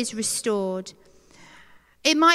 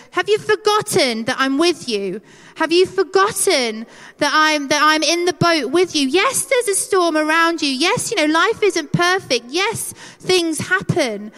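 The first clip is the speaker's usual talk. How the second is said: insistent, raised-voice challenge; mild mock shout; 4 semitones higher, 3 dB louder than usual. God shouting at us in the storm, insistent. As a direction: press each point home emphatically. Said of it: "shout at us and go".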